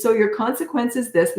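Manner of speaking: light, lilting parent tone; lilty, no anger. Shown as a demonstration. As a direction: announce the consequence without judgment. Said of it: "it's almost lilty. There's no judgment".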